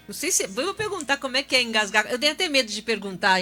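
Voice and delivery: fast, speaking through laughter; laughing at herself while talking. Real, not acted. Laughs at own choking.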